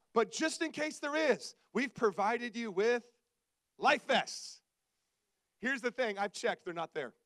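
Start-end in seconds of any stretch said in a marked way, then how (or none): 0.1-4.6 slow, measured safety announcement; lightly mock the cabin-crew spiel, drawn out; deliberate mock airline announcement; flight attendant announcement.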